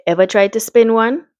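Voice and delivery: put-on lightly done Caribbean accent for a doctor. Doctor greeting a worried mother, light Caribbean accent. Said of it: "I'm gonna give him a Caribbean accent".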